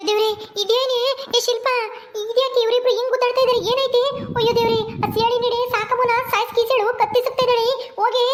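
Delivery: high-pitched, panicky exclaiming; alarmed. Acted. Bystander tells Shilpa of the strangling, high alarmed voice. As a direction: cry out in alarm for someone to intervene.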